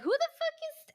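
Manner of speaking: high, loud indignant outburst; outraged. Retold or imitated. Girlfriend reacting to unknown Steve, high outraged outburst. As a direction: snap it out in disbelief. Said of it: "And I'm like".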